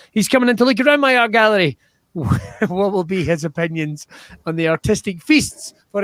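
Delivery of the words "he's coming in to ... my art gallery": fast, louder announcer patter; showman host. Acted. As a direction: sell it like a gallery showman.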